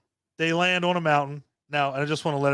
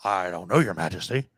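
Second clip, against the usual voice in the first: meek underling; 8 semitones lower than usual. Retold or imitated. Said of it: "he's like".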